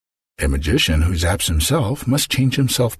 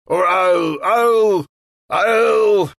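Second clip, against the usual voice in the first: rising louder, stammering fury; sputtering threat; 13 semitones higher, 3 dB louder, much slower than usual. Acted. Magician sputtering a threat at the queen. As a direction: choke on the threat, building.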